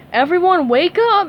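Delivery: loud call to wake the class. A narrator's reading. Teacher calling the sleeping class awake, loud. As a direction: raise the voice to rouse sleepers. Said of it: "Missus Puff called".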